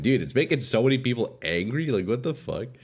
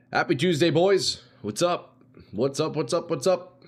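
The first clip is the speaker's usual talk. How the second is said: excited greeting; 6 semitones higher than usual. Real, not acted. Greeting chat at stream start.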